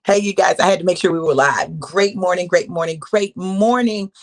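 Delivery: loud excited welcome; loud greeting. Real, not acted. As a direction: call out to the viewers. Loud re-greeting once live.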